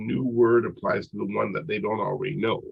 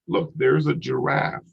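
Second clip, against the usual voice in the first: lightly acted parent pointing something out, higher and slower; parent to toddler; 5 semitones higher, slower than usual. Parent at the zoo to a one-year-old, lightly acted child-directed talk. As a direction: point it out slowly for a little one.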